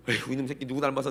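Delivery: sigh, then grumble it under your breath; a tired parent's exasperated mutter. Retold or imitated. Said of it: "내가 막 그랬어요". (한숨 섞어 투덜대듯)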